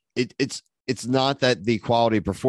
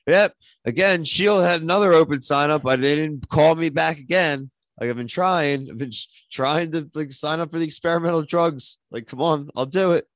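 higher-pitched pretend griping; mock complaining; 5 semitones higher than usual. Podcast host griping that shield never called back, mock complaint. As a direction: grumble like a rejected volunteer, hammed up.

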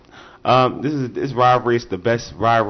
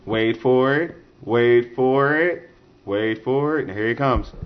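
slow drawn-out wait for it; teasing build-up; slower than usual. Shown as a demonstration. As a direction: tease it slowly. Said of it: "Oh, it's coming".

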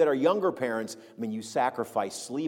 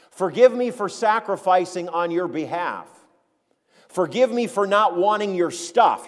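louder, higher mock plea for pardon; Paul's sarcastic apology; 4 semitones higher, 5 dB louder than usual. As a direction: press each sarcastic apology home emphatically. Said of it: "he sarcastically asks them forgiveness".

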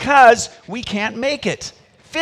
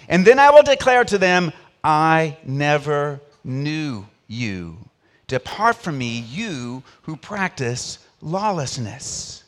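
scripture reading; 3 dB louder than usual. Acted. Reads scripture aloud.

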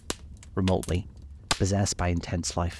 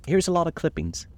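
eager; 10 semitones higher than usual. A narrator's reading. Gatsby eager to show.

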